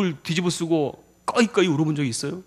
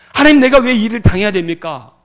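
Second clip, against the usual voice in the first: anguished cry; 4 semitones higher, 10 dB louder than usual. Acted. Acted anguished prayer cry.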